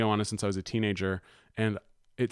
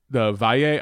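Spanish accent; 5 dB louder than usual. Real, not acted. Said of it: "I have a terrible Spanish accent".

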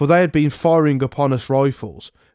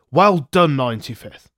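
general calling out praise. Retold or imitated. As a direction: call it out while riding down the line. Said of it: "he called out".

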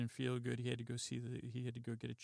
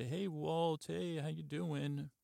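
cheery neighbor greeting; 4 semitones higher than usual. Retold or imitated. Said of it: "and they say".

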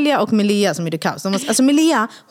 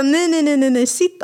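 laughing refusal; 6 semitones higher, slower than usual. Retold or imitated.

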